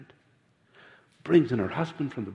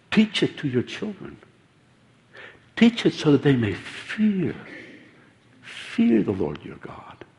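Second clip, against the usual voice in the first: solemn prophet rebuke. Retold or imitated.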